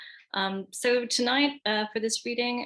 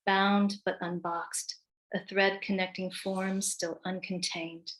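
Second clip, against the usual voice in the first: measured, deliberate poem recital, pausing between lines; poetry reading. Acted. Poet reads her Dickinson-inspired poem to an audience, measured recital.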